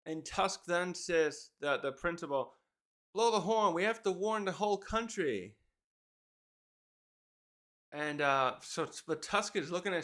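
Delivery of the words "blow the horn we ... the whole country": retold urgent order. Tusk tells the principal to warn everyone, retold urgent order. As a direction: act out a call to raise the alarm. Recap voices principal sounding alarm.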